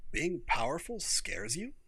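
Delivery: whispered slow question; curious whisper. Acted. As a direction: breathe it out, puzzled. Sung's curious quiet question.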